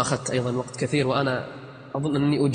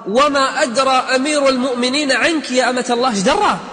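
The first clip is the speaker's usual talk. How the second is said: Umar questioning; 8 semitones higher, 5 dB louder than usual. Acted.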